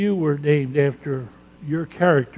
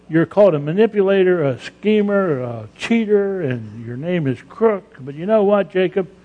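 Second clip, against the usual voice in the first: louder, higher list of names; God calling him out; 4 semitones higher, 3 dB louder than usual. Acted. Preacher voicing God naming Jacob's faults, rising and louder. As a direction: build it up as God declaring.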